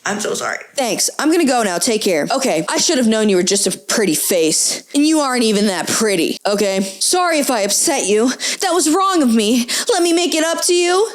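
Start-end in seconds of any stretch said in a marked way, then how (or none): 2.3-6.8 put-on spurned fuckboy with light Italian accent; sulky put-down in an Italian lilt; lightly Italian-accented insult. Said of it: "Italian accent for the fuckboy". 6.8-11.1 apologetic fuckboy with an Italian lilt; Italian-accented backpedalling plea. Acted. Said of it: "Italian accent for the fuckboy".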